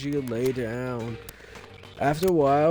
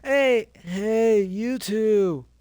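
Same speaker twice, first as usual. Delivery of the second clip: Mondo voice; 4 semitones higher, slower than usual. Acted. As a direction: bark it like a gang leader. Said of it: "her Mondo impression there".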